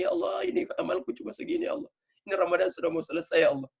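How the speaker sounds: high, thin-voiced plea; small, imploring voice of a supplicant; pleading prayer. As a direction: humbly own up before God. Models a humble plea to God.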